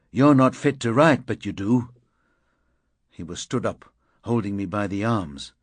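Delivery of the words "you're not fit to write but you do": angry comeback. Acted. Angry retort in quarrel.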